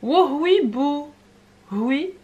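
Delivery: high, loud, delighted; mock delight. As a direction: squeal it with fake enthusiasm. Répond à sa propre question. (enthousiasme joué, aigu et fort)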